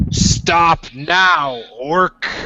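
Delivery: loud, high, booming shouting voice. A tabletop player voicing a dwarf character shouts at an orc, yelling. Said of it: "and I'm yelling".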